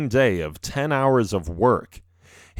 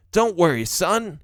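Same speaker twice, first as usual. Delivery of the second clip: reassuring father; 6 semitones higher than usual. A narrator's reading. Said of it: "he finally says".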